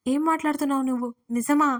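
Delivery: plain reading voice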